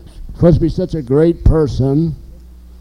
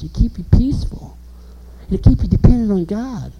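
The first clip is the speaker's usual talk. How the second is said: whispered; 3 semitones higher than usual. Real, not acted. Hushed calming line.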